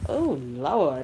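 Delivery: weary auntie's "Oh, Lord"; somebody's auntie. Real, not acted. Woman lamenting getting old, auntie-style exclamation. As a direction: groan it like somebody's aging auntie. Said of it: "that sound like somebody auntie".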